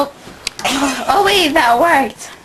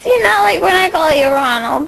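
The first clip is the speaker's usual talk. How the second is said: laughing while talking; much faster than usual. Real, not acted. Laughing fit mid-question.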